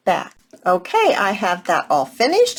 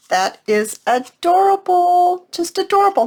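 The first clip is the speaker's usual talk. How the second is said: gushing; 10 semitones higher, 3 dB louder than usual. Real, not acted. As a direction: melt over how cute it is. Admiring finished piece.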